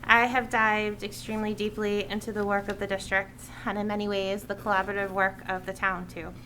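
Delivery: measured read-out public statement; prepared speech. Real, not acted. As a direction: deliver a written address to the committee. Reads a prepared committee speech.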